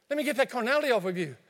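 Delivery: fast, flustered and urgent; panicking while wiping someone off; frantic cleanup. Acted. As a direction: rush it, flustered.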